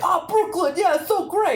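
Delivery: high, put-on Brooklyn accent; imitated Brooklyn accent. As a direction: gush in a mock Brooklyn accent. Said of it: "try to pronounce it like them".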